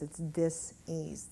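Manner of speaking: "dis-ease" said slowly as two parts, dis and ease; slow "dis-ease", a pause between dis and ease; dis-ease, split apart. Shown as a demonstration. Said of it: "that's all disease is".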